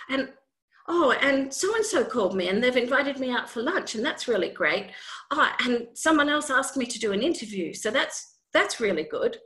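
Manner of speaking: bubbly, rushing with good news; upbeat happy self-talk. Retold or imitated. Acting out positive self-talk.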